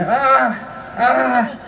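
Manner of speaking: high retold yelp of pain; retold pain scream. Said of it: "he screamed out in pain".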